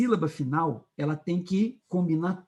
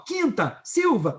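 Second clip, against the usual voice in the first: "quinta", "Silva" set apart, each punched on the I; stressed I vowel; 6 semitones higher, slower than usual. Shown as a demonstration. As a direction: hit the first syllable of "quinta" and "Silva". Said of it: "o I segura a rima". ("quinta", "Silva" com o I bem marcado)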